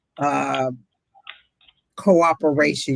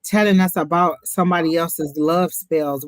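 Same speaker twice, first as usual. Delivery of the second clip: pitched-up exasperated scolding; indignant call-out; 3 semitones higher, 3 dB louder than usual. Real, not acted. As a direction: scold the rude commenter, voice rising. Calling out rude commenter.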